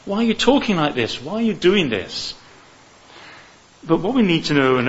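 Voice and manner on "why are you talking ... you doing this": higher, urgent plea of a protesting disciple; pleading like Peter. Pretend. Preacher voicing Peter's protest to his Lord, pleading higher. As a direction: beg the Lord not to go through with it. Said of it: "like Peter, say".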